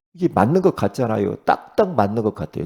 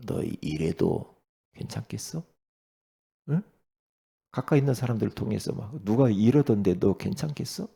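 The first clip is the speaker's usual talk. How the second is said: mild hushed coaxing; a touch of a sly insinuating voice; tempter's whisper; 3 dB quieter than usual. Retold or imitated. Satan tempting the listener: lightly hushed, sly coaxing. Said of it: "이렇게 속인다니까요".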